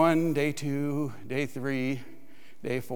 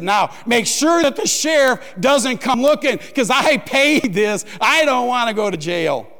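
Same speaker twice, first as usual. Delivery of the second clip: louder, slowing on the last words; firm warning; 3 semitones higher, 4 dB louder than usual. Retold or imitated. Man paying the tax man, louder, insisting he won't go to jail. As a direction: lay it down so he gets it.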